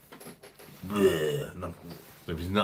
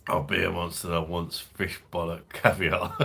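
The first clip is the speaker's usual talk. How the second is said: laughing. Real, not acted. Joking, laughing as he talks.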